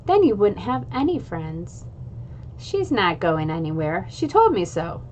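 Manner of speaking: put-on lively read-aloud of a children's chapter book; story narration. A narrator's reading. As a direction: read it like storytime for a class of kids. Reads chapter aloud to viewers.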